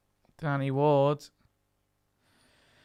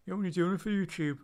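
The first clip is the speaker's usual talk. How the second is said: retold accusation; 6 semitones higher, faster than usual. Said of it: "I've had people go".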